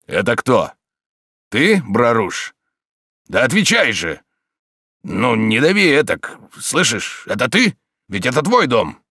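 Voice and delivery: the thug caught in an iron grip; strained thug. A narrator's reading. Thug grappling with unseen foe. (встревоженный громила, громче и выше)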